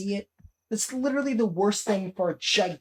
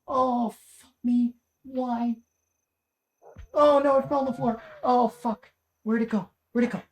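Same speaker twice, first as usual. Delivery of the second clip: high, rattled swearing at a giant bug; panicked cursing at the centipede; startled panic; 5 semitones higher, 3 dB louder than usual. Real, not acted. Gamer spots a huge centipede, startled panic.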